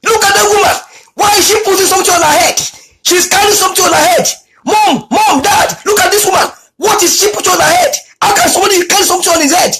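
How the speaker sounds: imitating an excited child. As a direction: act out a child amazed at the street. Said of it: "my son began to scream".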